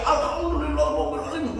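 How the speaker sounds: very high, loud hammed-up yell, rising at the end; ecstatic shout. Traveler shouting on the racing camel, high ecstatic yell. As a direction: scream it with wild joy. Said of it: "Dia terus teriak".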